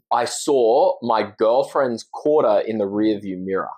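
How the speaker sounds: light Australian accent, slow and careful. Shown as a demonstration. Guest demos his tongue twister in an Australian accent. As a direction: say it the Aussie way, slowly. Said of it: "I'll say it in the Australian accent".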